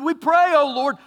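loud, high desperate prayer; mock frantic plea; pleading sailors. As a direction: beg God for their lives. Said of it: "listen what they said to him".

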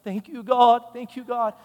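high-pitched imitated Nigerian woman's accent; attempted Nigerian accent. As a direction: give thanks in your best Nigerian accent. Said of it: "I can try my best on the accent".

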